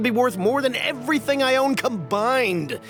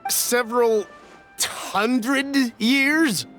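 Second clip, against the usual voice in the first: drawn-out, higher-pitched disbelief; incredulous question; 4 semitones higher, much slower than usual. Acted. Astonished at claimed age of wares.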